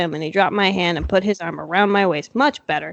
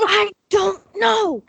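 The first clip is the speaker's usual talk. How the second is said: laughing; 11 semitones higher, much slower than usual. Real, not acted. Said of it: "Why does she keep saying".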